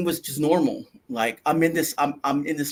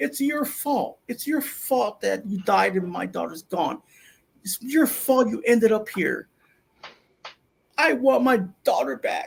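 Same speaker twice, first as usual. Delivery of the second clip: high-pitched, tearful, accusing crying voice; 7 semitones higher than usual. Retelling a vision of a female cop blaming the listener: imitating a crying woman. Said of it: "She was just tearing up".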